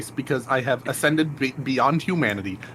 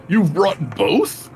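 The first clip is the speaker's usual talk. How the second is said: NPC voice; 3 semitones higher than usual. Acted. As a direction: react grandly, then command.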